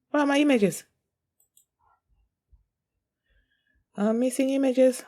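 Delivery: suddenly panicked about missing images; real surprise; alarmed. Real, not acted. Streamer loses game images.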